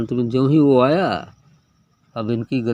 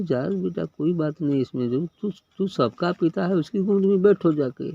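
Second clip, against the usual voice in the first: higher, gentle mother's voice; mother consoling son; 6 semitones higher than usual. Acted. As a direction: soothe the boy as his mother would. Mother consoling her son in story. (ऊँची, कोमल माँ की आवाज़)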